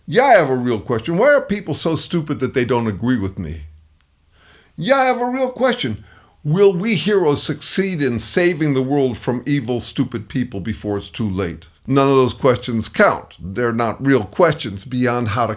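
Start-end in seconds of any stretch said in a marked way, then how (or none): 0.1-3.6 fast, smug know-it-all voice; mock know-it-all. Shown as a demonstration. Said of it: "one of these incurious questions". 4.8-11.7 mock self-styled hero. Shown as a demonstration. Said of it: "one of these incurious questions".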